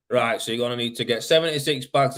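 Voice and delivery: a light hint of James's regional accent, barely shifted. The speaker quoting James's reply in a faint hint of James's accent. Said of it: "I'm trying to do his accent a bit".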